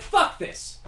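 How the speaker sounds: whispered, unvoiced curse; breathed out in disgust; whispered high curse; muttered curse. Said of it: "Beethoven was like".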